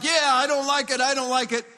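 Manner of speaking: a touch of indignant complaining; mock angry grumble. Preacher imitating an angry believer, mock grumble. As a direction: grumble it like an offended citizen. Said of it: "if I get angry and I get like".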